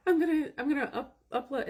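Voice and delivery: giggling, hardly getting the words out; laughing through words. Real, not acted. Laughing while quoting herself.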